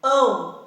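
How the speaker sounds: "Ão" hummed through the nose; nasal vowel demo. Shown as a demonstration. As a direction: push "Ão" up into the nose. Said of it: "a vibração é forte aqui em cima". ("Ão" bem nasal, vibrando no nariz)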